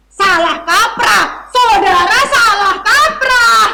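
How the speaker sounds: slow, loud, theatrical scolding; hammy stage actor. Acted. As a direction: ham up the outrage. Officer scolding the narrator.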